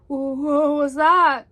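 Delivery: loud, slow, stammered alarm; startled Piglet. A narrator's reading. Piglet wakes to a strange noise, startled stammer. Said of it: "A strange noise startled Piglet".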